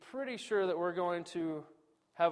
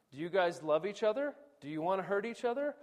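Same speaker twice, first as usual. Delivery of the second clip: godly appeal; 4 semitones higher, faster than usual. Retold or imitated. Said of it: "in a scriptural and godly way".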